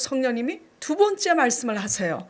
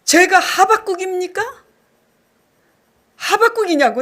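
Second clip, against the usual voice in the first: higher and louder, challenging God; defiant outburst at God; 6 semitones higher, 6 dB louder than usual. Retold or imitated. To God after the pastor leaves, louder defiant protest. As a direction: throw the question back at God in protest. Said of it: "하나님께 이렇게 대들었어요".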